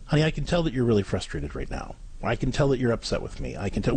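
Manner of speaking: empathetic. Shown as a demonstration. Parent empathizing with a frustrated, upset daughter, gently empathetic. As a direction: acknowledge the child's frustration calmly. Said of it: "okay, is empathize".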